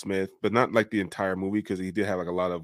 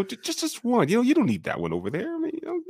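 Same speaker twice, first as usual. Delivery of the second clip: mock pleading; much faster than usual. Pleading bit continues.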